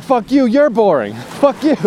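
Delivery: high, loud mock outburst through laughter; retold rant. Ranting at people who call small talk boring, mock angry. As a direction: snap back at the complainers, half laughing. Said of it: "went on this rant".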